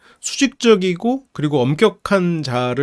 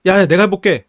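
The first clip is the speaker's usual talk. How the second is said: higher, louder pushy take-over; eager Anger; 5 semitones higher, 4 dB louder than usual. Retold or imitated. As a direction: shove in to grab the controls. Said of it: "분노가".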